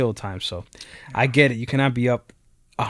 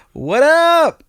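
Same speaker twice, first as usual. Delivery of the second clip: much higher, louder hyped-up hello; loud bro greeting; 7 dB louder than usual. Retold or imitated. Coworker barging in with an overexcited high shout. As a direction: call it out like a pumped coworker. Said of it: "he would walk in and be like".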